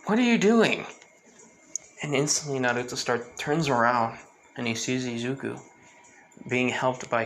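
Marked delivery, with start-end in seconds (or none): 0.1-0.9 high, loud teasing question; playful call. Retold or imitated. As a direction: tease him brightly. Izuku teasing shocked Naruto.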